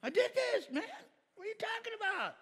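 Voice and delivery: mock exasperated self. Husband protesting to his wife, high whiny exasperation. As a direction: whine it like a baffled husband. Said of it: "And I'm like".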